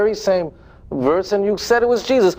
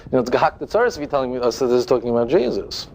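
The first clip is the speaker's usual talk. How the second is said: mock worried scholar; 6 semitones lower, faster than usual. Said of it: "the more honest Christians that are saying".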